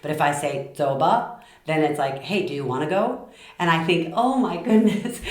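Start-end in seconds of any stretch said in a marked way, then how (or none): 0.8-1.4 "do ba" lifting at the end; suggestion, rising. Shown as a demonstration. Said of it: "to be just a suggestion". 2.2-3.3 easy, inviting question; casual suggestion. Shown as a demonstration. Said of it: "just a suggestion". 4.1-5.2 high, delighted exclamation; excited realization. Retold or imitated. Excited reaction to a language.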